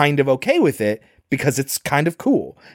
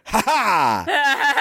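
jump scare shout; 10 semitones higher than usual. Acted. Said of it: "dude pops out face right in front of her and is like".

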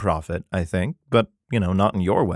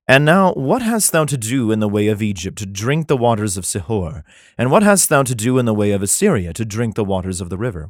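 measured, solemn Bible reading; scripture reading; 3 semitones lower than usual. Acted. Comedian reads Jeremiah to his audience, solemn scripture reading. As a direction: read it like King James scripture.

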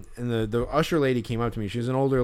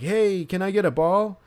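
put-on higher, slow kid's plea; imitating a kid asking; 9 semitones higher, 4 dB louder than usual. Fan retelling a kid begging a pitcher for a ball. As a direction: mimic a hopeful little kid. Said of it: "I hear the kid go".

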